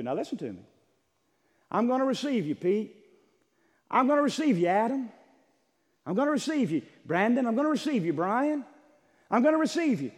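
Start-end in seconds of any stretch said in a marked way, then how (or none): 1.7-10.1 raised, emphatic preacher voicing God; God's proclamation. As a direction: proclaim each welcome high and loud. Acting God welcoming sons by name.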